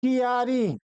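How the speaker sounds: कियारी in three syllables, ki-yaa-ri; wrong pronunciation. Shown as a demonstration. Teacher shows pupils the misspelt word, कियारी said as ki-yaa-ri. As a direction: split the start of कियारी into ki-yaa. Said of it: "अशुद्ध है".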